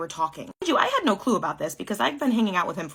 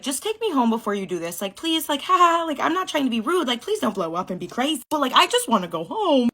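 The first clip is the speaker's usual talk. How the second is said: nervous pleading; 5 semitones higher, 3 dB louder than usual. Retold or imitated. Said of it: "this kid, like".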